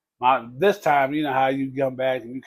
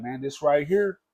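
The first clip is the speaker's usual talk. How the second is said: mild imitation of his preaching. Cousin preaching to the narrator, lightly voiced and earnest. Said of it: "that's the way he talked".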